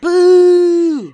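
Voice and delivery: high, loud jeering boo. Real, not acted. Fan loudly boos the villain arriving on screen. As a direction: boo her off the stage. Booing a hated villain's entrance.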